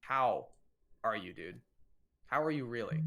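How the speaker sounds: a probing "How", waiting for the true answer; stress on HOW. Shown as a demonstration. Asking a buddy over dinner how he really is, stress on HOW. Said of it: "emphasizing the word "how".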